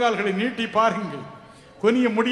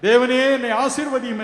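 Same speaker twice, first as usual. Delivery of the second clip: mild begging; 3 semitones higher, 4 dB louder than usual. Acted. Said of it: "அவரிடம் கெஞ்சுங்கள்".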